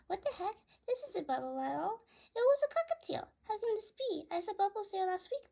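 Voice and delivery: high, loud disbelieving cry; a bird stunned by what it sees; surprised. Acted. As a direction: blurt it out in shock. Bird discovers it isn't Bubbles.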